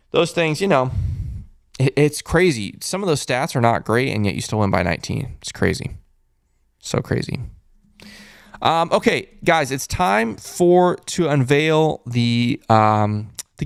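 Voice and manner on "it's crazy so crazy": hushed, almost voiceless marvel; whispered awe. Real, not acted. Host marvelling the Magic still won, whispered. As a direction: breathe it out in disbelief.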